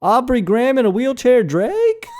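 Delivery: high shouted impression of a rapper. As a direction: call out the name high and stretched like a rapper. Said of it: "He's like".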